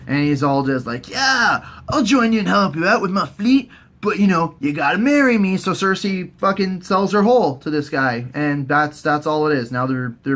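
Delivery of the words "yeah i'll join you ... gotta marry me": higher, mildly crazy suitor; Euron Greyjoy. Retold or imitated. Euron offering Cersei his fleet, higher mock-crazy voice. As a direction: pitch it up, a touch manic. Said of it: "he's all fucking crazy".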